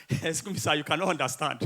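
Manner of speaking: pupil pleading through giggles; helpless laughing. Acted. Pupil excuses himself to angry teacher, giggling. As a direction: protest while failing to stop laughing. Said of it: "you are still laughing".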